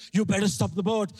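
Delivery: firm, mildly mock-angry order; acted warning from an angry father; imitated angry dad. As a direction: play a dad getting angrier. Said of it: "He's getting angrier".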